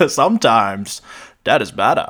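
mock Maine accent catchphrase. Co-host quoting the movie's tagline, terrible Maine accent. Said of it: "this terrible Maine accent".

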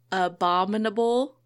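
careful, drawn-out ABOMINABLE; tricky word taken slowly. Shown as a demonstration. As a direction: sound out "abominable" slowly so it doesn't trip you. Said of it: "I have to say it very slow".

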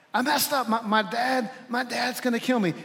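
a touch of panic, stumbling on the words; mock fear. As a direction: act the scared child, pitched a little up. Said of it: "That's relating to God out of fear".

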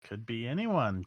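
put-on soft old lady voice, lilting up mid-phrase; hushed old villager; first old lady. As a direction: say it softly, like an old woman musing. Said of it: "says the other one".

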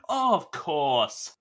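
slow, stretched imitation of the director; Scorsese. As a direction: draw it right out, slightly hammed-up. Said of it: "Scorsese's like".

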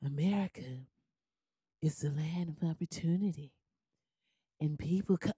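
sleepy, hollow low voice, very soft; mock a boring speaker half asleep; Ben Carson. Mocking a politician's speech, sleepy hollow drone. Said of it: "this is how he sounds".

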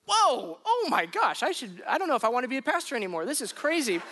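half-laughing retold panic; shocked outburst. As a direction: blurt it out like you just heard a death threat. Pastor retelling his own shock.

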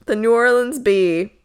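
a touch of Southern accent on New Orleans Bee. Real, not acted. A host reading the newspaper name, mild Southern accent. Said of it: "said that with such a southern accent".

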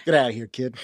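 loud gruff send-off; loud shoo. Acted. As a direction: bark it at the horse. Shoos horse away.

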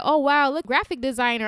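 mock admiration. Commenters praising her flyer designs, impressed. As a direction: play an impressed follower gushing.

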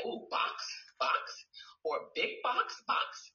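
repeating the word. Shown as a demonstration. Therapist showing parents how to repeat a word. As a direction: say box again and again, gently. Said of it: "Say it over and over again".

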